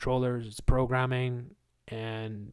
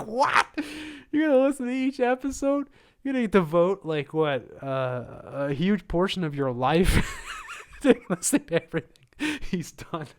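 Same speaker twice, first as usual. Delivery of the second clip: mock incredulous rant; 7 semitones higher, 4 dB louder than usual. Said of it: "It's like".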